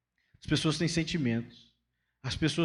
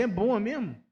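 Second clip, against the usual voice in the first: higher, bright delighted reactions; happy for you; 6 semitones higher than usual. Shown as a demonstration. Pastor modelling how to praise a friend's shirt, delighted. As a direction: show the kind response with delight. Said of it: "a pessoa não consegue falar assim".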